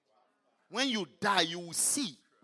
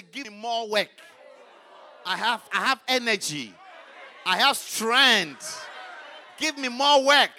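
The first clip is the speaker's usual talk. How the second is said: building to a loud shout, eager for work; eager plea; 10 dB louder, slower than usual. Pretend. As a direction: demand more work, growing louder. Acting a zealous worker.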